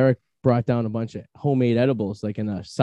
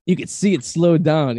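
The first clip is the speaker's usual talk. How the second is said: mock stoned voice; 5 semitones higher, 4 dB louder, slower than usual. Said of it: "in slow motion".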